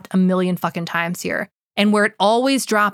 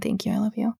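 soft sincere thanks; 7 dB quieter, faster than usual. Real, not acted. Thanking listener, soft aside.

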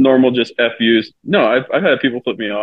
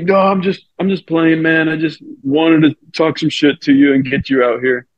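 imitated backing down; 6 semitones higher than usual. Acts out heckler backing down.

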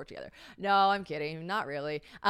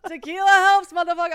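laughing cheer; 9 semitones higher, 12 dB louder than usual. Real, not acted. Repeated joke, louder.

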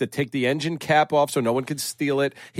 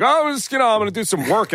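innocent high voice; 8 semitones higher than usual. Retold or imitated. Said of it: "And I'd be like".

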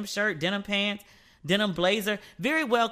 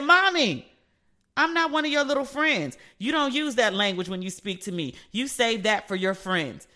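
retold mild scolding; 2 semitones higher than usual. Daughter telling off mother for her language, mildly scolding.

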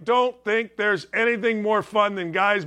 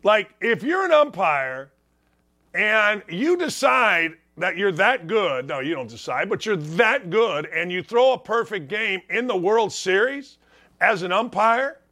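normal talking voice

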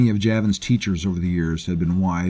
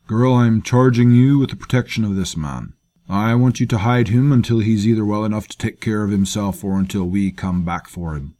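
louder, firm order to a servant; commanding leader; 3 semitones higher, 5 dB louder than usual. Acted. Leader charges slave girl with guarding wounded man, firm and louder. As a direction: lay the charge on her with authority.

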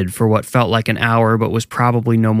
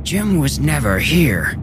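high, slow, breathy possessed whisper-voice; 4 semitones higher, slower than usual. Acted. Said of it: "In a high, breathy voice".

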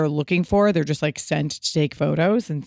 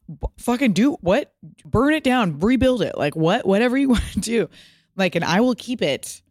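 excited gushing; 6 semitones higher than usual. Retold or imitated. To the location scout, giddy and over the top. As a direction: throw the house at her, thrilled. Eager homeowner offers kitchen to scout.

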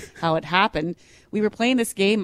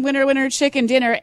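mock kid yell; 7 semitones higher, 4 dB louder than usual. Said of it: "as he's yelling".

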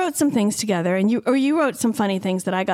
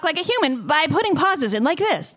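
automated AI voice; 4 semitones higher than usual. Retold or imitated. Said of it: "A I voice that would go".

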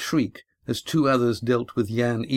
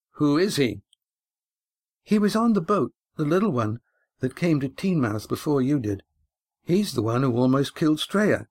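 put-on higher girl's voice, accusing; girl telling the captain who he is, higher; spirited teenage girl; 4 semitones higher than usual. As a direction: speak up as a defiant young girl. Girl character speaks.

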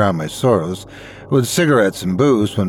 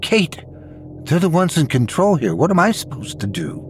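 defensive; 6 semitones higher than usual. A narrator's reading. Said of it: "I asked defensively".

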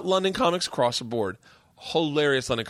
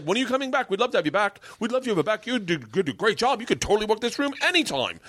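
high, gushing put-on voice; hammed-up eager flattery; mock fawning; 8 semitones higher than usual. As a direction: fawn over the act, pitched way up. Imitates club suddenly fawning over him.

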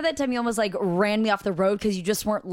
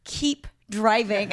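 flat command; much slower than usual. Retold or imitated. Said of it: "my mom was like".

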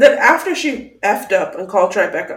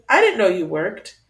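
skeptical quote; 4 semitones lower than usual. Retold or imitated. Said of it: "Aaron says".

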